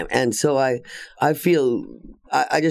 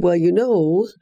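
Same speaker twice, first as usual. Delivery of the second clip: high, slightly louder mimic of a tiny woman; lightly voiced little lady; imitating Kay; 7 semitones higher, 3 dB louder, slower than usual. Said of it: "She said".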